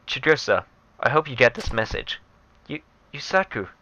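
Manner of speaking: quiet, sorrowful recorded message; soft farewell message. Acted. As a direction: speak it like a last goodbye. Reads dying lover's phone message.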